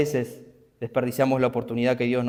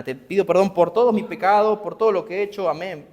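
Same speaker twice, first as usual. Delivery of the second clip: higher, quick, dismissive prayer imitation; mock rote prayer; 6 semitones higher than usual. Preacher mocks the careless believer's prayer, hammed-up. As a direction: rattle off a careless bedtime prayer. Mocking a shallow prayer again.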